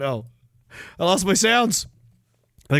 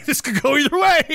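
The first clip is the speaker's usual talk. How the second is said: tag; 9 semitones higher than usual. Retold or imitated. Retells wary meeting, laughing.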